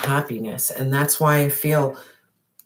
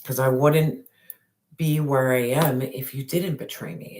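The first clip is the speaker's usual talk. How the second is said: gentle forgiving. Pretend. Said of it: "He said".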